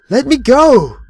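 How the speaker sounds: full high terrified scream. Acted. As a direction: scream in pure terror. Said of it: "I screamed".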